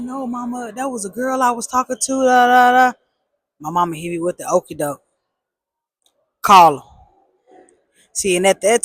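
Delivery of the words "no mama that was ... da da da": nervous denial. Retold or imitated. Denying to mom.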